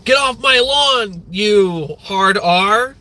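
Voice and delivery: put-on high, slow shouting old-man rant; mock get-off-my-lawn old man; grumpy old dad. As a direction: bellow like a cranky Fox News dad. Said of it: "acting like a seventy-year-old Fox News dad".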